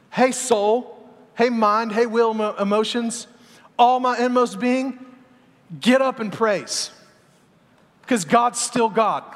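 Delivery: emphatic, drawn-out rallying preach; preaching to himself. Retold or imitated. David urging his own soul to praise, preaching. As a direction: rouse your own soul, stretching the phrases. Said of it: "would preach to himself".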